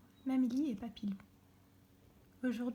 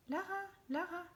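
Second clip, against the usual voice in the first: cry; 6 semitones higher than usual. A narrator's reading. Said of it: "Puis elle entend un cri".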